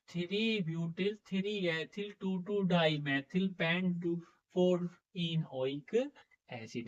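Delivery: slow, measured name read piece by piece; drawn-out recitation. Shown as a demonstration. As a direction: recite the long name slowly, dropping on the last word. Repeats the full compound name. (लंबा नाम धीरे-धीरे बोलते हुए)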